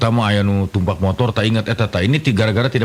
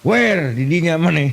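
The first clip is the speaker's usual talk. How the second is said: much higher, slow mock English; broken English; 6 semitones higher than usual. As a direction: ham up clumsy English. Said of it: "Bahasa Inggris tapi kepakojot". (bahasa Inggris ngawur, nada tinggi dibuat-buat)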